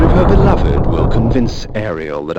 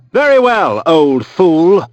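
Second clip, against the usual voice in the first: higher, louder contemptuous challenge; cold threat; 4 semitones higher, 4 dB louder than usual. Acted. The vampire Kain accepting the old mentalist's challenge, menacing.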